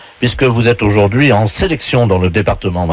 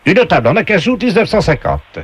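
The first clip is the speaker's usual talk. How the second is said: game show announcer; 5 semitones higher than usual. Acted. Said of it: "on vous passe tout de suite la voix du jeu".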